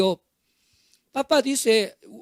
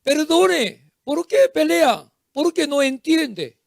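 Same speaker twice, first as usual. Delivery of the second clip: parent scolding; 4 semitones higher than usual. Acted. Acted parent scolding fighting children.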